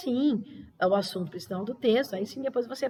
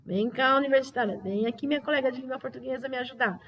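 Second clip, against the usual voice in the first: a touch higher, mock bewildered student; imitating a puzzled student; 4 semitones higher than usual. Teacher imitates a pupil baffled by the question, mildly mock puzzled. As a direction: lightly play the stuck pupil calling for help. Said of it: "Então, vai falar assim".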